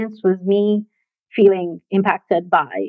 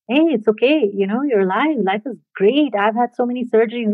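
gentle reassurance; 2 semitones higher than usual. Retold or imitated. Gentle stranger reassures the speaker after the fall, lilting and kindly. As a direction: imitate a kindly man cheering someone up. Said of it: "he was a very gentle human".

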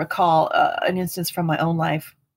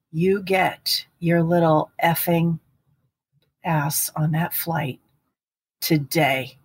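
menacing threat; slower than usual. Retold or imitated. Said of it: "his voice changed in a way I never heard".

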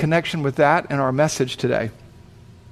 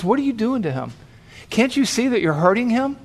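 higher-pitched, indignant questioning; mildly angry challenge; 5 semitones higher than usual. Retold or imitated. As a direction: challenge them with a touch of anger. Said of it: "he seemed a little bit angry".

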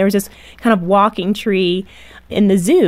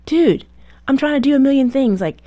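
exasperated mom; 5 semitones higher than usual. Retold or imitated. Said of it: "And I'm like".

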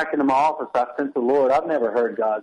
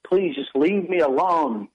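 retold yell; 5 semitones higher than usual. Husband trying to prepare his sermon, retelling mild exasperation. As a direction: re-enact exasperation at being interrupted, restrained. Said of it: "I yelled at her".

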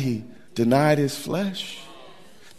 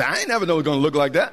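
mock surprised spouse; faster than usual.

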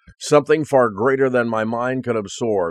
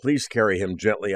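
prayer. Retold or imitated. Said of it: "I prayed".

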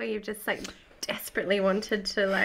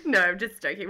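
laughing; 4 dB louder than usual. Real, not acted. Big laugh then retraction.

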